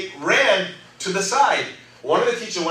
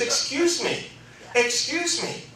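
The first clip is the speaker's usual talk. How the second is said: interrupting teacher; 6 semitones higher, 6 dB quieter, slower than usual. Retold or imitated.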